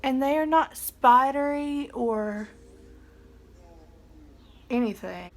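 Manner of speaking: talking with mouth held open; mascara face. Real, not acted. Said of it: "Trying to talk while I still have my mascara face".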